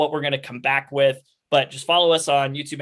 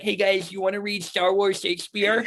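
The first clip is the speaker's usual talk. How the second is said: lightly hammed-up eager geek, pitched up; mock yourself pitching an idea, higher voice; a higher, playful imitation of yourself; self-impression; 5 semitones higher than usual. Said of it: "That's a great impression of yourself".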